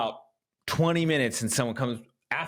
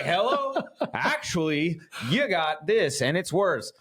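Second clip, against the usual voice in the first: mock passerby; 5 semitones higher, slower than usual. Voices hikers bringing bad news.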